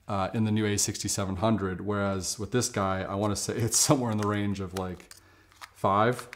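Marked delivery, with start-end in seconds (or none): 3.6-6.3 deadpan sarcastic lowball, pausing before the number. Shown as a demonstration. Vlogger joking about his old camera's battery, sarcastic. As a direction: draw out the range, then drop the joke figure. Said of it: "I'm being sarcastic".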